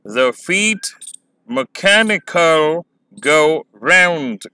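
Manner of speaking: "The feet mechanical go round", very slow "mechanical", pauses between phrases; measured weak-strong beat through the whole line; iambic line demo. Shown as a demonstration. Teacher pronouncing the whole line for students, slow iambic stresses. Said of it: "pronounce करेंगे, क्या बनेगा?".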